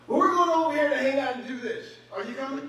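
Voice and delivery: loud, high, breezy coworker voice; coworker inviting. Retold or imitated. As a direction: toss out a cheery invite. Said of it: "coworker inviting".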